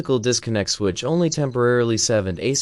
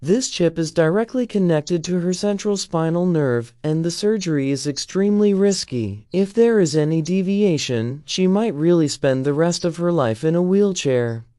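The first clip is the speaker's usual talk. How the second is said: grave doctor; 7 semitones higher than usual. A narrator's reading.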